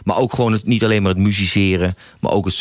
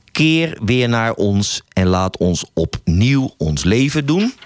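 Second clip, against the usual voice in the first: measured, unhurried poem reading; poem recital. Acted. Radio host recites his spring poem to listeners, measured recital. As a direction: read each line like a verse, pausing between.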